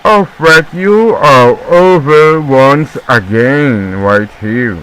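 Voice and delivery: stretched-out, slow English-gentleman accent; Englishman accent. Shown as a demonstration. Commentator obeying his English teacher, mock Englishman accent. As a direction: put on a drawn-out Englishman accent. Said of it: "I should talk like the Englishman".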